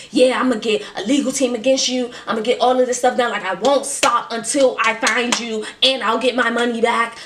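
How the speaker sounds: a touch of anger, threatening legal action; mock angry threat. To the scammer, promising a legal team, mildly heated threat. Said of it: "so now I'm pissed off".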